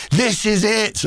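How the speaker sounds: high, thrilled cry of triumph; ecstatic shout. Retold or imitated. Poet rolled over by a hamster ball on stage, thrilled high cry. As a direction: yell it out like the moment has finally arrived. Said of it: "and just going".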